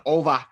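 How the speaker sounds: "over" with no final r; "over" said as "ova"; Boston "over". Shown as a demonstration. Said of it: "she'll type in".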